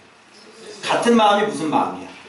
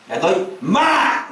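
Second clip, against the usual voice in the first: mock rough talk; much slower than usual. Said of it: "이렇게 할까요".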